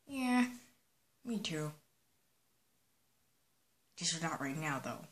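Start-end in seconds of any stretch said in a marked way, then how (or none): 4.0-5.1 murmured low and soft; quiet. Acted. Link mutters it to himself, soft. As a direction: say it under your breath. Same words said twice.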